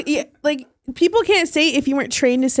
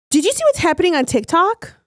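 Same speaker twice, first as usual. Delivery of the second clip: slightly raised, staged question; scripted skit acting; 4 semitones higher than usual. Setting up a TikTok bit for friends, staged curiosity. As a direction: deliver it like an amateur actor's setup line. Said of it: "you broke character".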